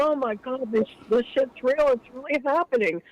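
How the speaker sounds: high, panicky retelling of frightened coworkers; mock scared. Swing shift managers watching ghost footage, mock frightened. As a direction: squeak it out like spooked managers. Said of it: "were scared, out of their minds".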